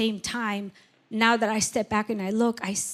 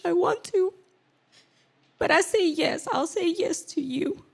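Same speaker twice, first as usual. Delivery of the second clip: scared pleading prayer; 7 semitones higher than usual. Retold or imitated. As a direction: beg the Lord not to leave, hushed and high. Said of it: "I got really scared and I said".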